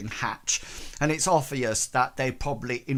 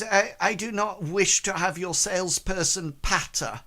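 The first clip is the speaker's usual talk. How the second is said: higher, formal lady's voice; dismissive woman character; 5 semitones higher than usual. Acted. Lady turns away a salesperson's patter, higher and formal. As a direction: rebuff them in a prim, raised register.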